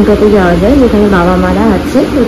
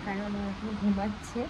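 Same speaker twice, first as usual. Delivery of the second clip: talking softly; 22 dB quieter than usual. Real, not acted. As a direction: keep your voice right down, the little one is asleep. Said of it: "আমরা অনেকটা আস্তে কথা বলছি".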